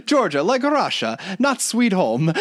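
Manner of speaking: laughing while quoting the mafia guy; laughing quote. Retold or imitated. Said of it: "I love when he just goes".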